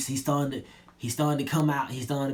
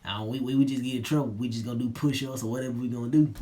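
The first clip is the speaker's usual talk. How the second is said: nonchalant; 3 dB quieter, faster than usual. Retold or imitated. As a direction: shrug it off like you couldn't care less. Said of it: "Smith being nonchalant".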